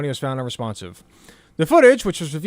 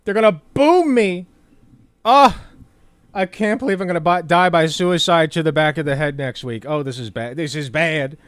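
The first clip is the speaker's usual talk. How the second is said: mock panic; 3 dB louder than usual. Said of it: "He's like".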